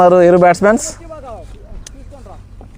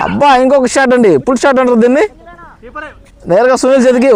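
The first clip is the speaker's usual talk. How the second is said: higher, lively call of the play; excited commentary; 4 semitones higher than usual. Real, not acted. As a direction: call the shot with rising excitement. Another shot, near catch.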